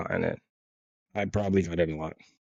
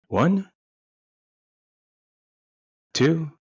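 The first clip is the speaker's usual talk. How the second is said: put-on a baffled kid sounding out a word; puzzled kid; 2 semitones higher, slower than usual. Young boy puzzling over new slang, confused and rising. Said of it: "you think".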